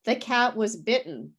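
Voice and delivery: BITTEN as bit'n, nothing sounded in the middle; silent middle T. Shown as a demonstration. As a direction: swallow the T in BITTEN. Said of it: "I don't pronounce anything in the middle".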